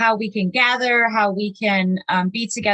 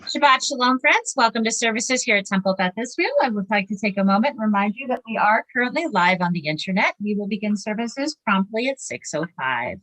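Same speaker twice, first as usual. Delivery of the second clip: polished, rehearsed announcement voice; flight attendant voice. Acted. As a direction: speak like a flight attendant on the intercom. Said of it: "And she says that so nicely".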